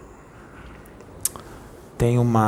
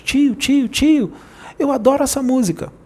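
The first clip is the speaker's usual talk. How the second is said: put-on much higher excited little girl voice; high child calling her uncle about the song; Mariazinha child voice; 10 semitones higher than usual. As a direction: squeal it like a kid bouncing in the back seat. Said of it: "aparecia a Mariazinha sentada no banco de trás".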